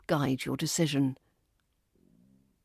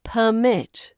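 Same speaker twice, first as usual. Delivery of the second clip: perMIT, second syllable stressed; 3 semitones higher, 4 dB louder than usual. Shown as a demonstration. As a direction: hit MIT in "permit", drawn out. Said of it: "But as a verb".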